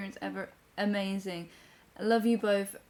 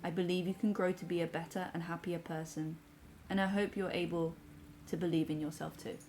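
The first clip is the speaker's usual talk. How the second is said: measured, softer read-aloud; reading a message aloud; 3 dB quieter than usual. Acted. Reads a viewer's comment aloud.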